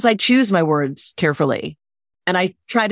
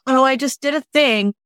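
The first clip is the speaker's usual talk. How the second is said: breezy, higher, falsely modest brush-off; humble brag; 5 semitones higher than usual. Retold or imitated. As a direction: play it down as if it were nothing. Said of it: "being like".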